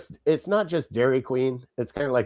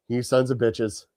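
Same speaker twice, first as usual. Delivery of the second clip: louder, exasperated imagined yelling; mock rant; 6 dB louder than usual. Imagined rant at slow family.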